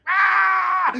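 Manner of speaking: high loud frantic shriek; frantic scream. Retold or imitated. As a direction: scream like a kid losing it. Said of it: "And he's like".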